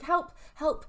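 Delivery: high mock cry for help; little guinea pig. Guinea pig calling to his friend, mock-pleading. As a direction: squeak it out like a tiny trapped pet. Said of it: "in his little guinea pig self".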